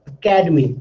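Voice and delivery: "Academy" stressed on ca, falling afterwards; stress on the second syllable. Shown as a demonstration. Teacher showing that stressed is loud, "Academy" stressed on ca. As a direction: punch the CA in "Academy". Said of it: "something that is stressed is loud".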